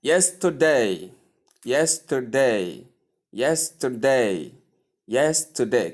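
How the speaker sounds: YES-terday, the stress on the opening syllable; first-syllable stress. Shown as a demonstration. Teacher drilling yesterday for learners, stress on the first syllable. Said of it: "stress is placed on the first syllable".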